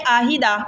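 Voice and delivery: آہیدہ with ع softened to a glottal stop; simple wrong way. Shown as a demonstration. Teacher shows the wrong آہیدہ without ع. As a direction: read آہیدہ plainly, no throat sound for ع. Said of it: "عین کی آواز محسوس نہیں ہو رہی".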